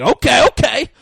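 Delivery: high, shouted burst of excitement; hammed-up excited yelling; excited imitation. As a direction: imitate someone getting wildly worked up. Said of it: "Tico gets excited".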